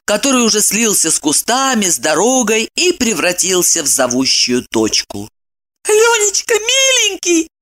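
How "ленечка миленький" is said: much higher, tearful begging; high imploring woman's voice; pleading. A narrator's reading. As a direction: beg him tenderly. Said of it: "взмолилась она".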